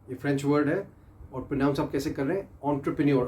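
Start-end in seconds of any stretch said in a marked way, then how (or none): 2.7-3.3 teacher models एंटरप्रेन्योर for students to repeat; model pronunciation. Shown as a demonstration. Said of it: "आपने repeat करना मेरे साथ".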